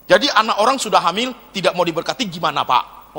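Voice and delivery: quick, brusque imitated question; blunt questioner. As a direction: fire it off as a rude listener. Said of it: "agak kasar sih ngomongnya". (bertanya ceplas-ceplos agak kasar)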